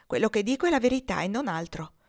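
grave, mildly wounded innocence; a touch of injured dignity; offended innocence. Acted. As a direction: protest with solemn, understated hurt. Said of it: "con la gravità dell'innocenza offesa".

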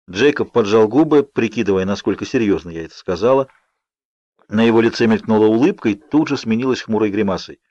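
plain reading voice

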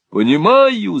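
high, loud eager exclamation; excited cry. A narrator's reading. Lenville delighted by his role, excited cry. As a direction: blurt it out, thrilled. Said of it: "закричал Ленвилл".

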